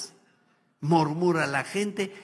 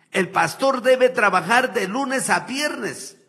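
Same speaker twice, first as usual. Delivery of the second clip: raised, indignant preaching; angry preaching; 3 semitones higher, 5 dB louder than usual. Real, not acted. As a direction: lash out at the pastors, louder. Rant against greedy pastors. (predicación indignada y más fuerte)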